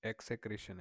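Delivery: teacher's careful reading of एक्सेक्रेशन; pronunciation demo. Shown as a demonstration. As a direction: say एक्सेक्रेशन clearly as ek-se-KRE-shan. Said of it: "इसकी जो pronunciation है".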